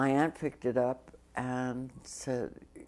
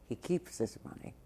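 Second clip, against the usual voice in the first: quiet aside; 7 dB quieter, faster than usual. Real, not acted. Aside teasing Ed.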